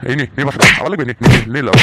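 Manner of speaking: loud, furious scolding while hitting; angry father. Acted. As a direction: lay into him hard. Father beating his son.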